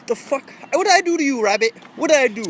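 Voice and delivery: mock indignant. Asking the rabbit why it ran, mock hurt. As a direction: play the wounded victim.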